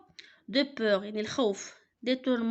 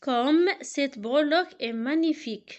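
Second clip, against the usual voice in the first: loud, admiring exclamation; a marvelling exclamation, louder; exclamation read aloud; 3 semitones higher, 5 dB louder than usual. Shown as a demonstration. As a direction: read it out as real wonder. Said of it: "il se termine par un point d'exclamation".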